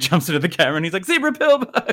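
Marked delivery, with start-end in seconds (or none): 1.0-1.9 very high, gleeful, super happy high-pitched voice. Retelling how he puts on a happy face and jumps into the camera, acting out super happy. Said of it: "Like just like super happy".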